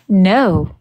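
emphatic no. Real, not acted. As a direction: shut the idea down with a run of nos. Refusing white dress at wedding.

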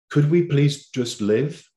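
voiced as a slow, wishful appeal; heartfelt plea. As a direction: plead slowly, stretching the words. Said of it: "It's expressing an emotion".

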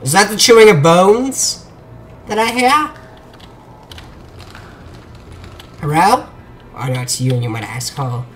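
hushed mock Chinese accent; Jackie Chan accent. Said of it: "I always slip into an accent".

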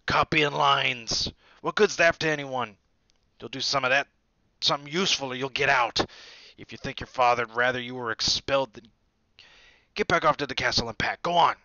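loud, gruff growl; growling Hagrid. A narrator's reading. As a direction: growl him back into line. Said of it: "Hagrid growled".

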